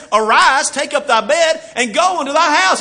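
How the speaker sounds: high, loud commanding call; Jesus commanding. Retold or imitated. Jesus to the paralyzed man, a high commanding call. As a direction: command him to rise.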